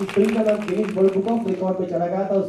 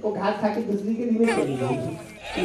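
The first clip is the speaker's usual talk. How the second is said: put-on child voice; 4 dB quieter, slower than usual. Raju answering teacher.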